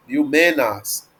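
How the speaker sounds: liomenas said slowly with a long final a; long final vowel. Shown as a demonstration. Teacher repeating for students, liomenas with long a. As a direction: hold the a at the end of liomenas. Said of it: "porque é longo".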